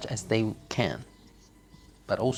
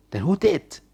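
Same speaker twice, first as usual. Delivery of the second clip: accusing wife; 5 semitones higher, 3 dB louder than usual. Acted.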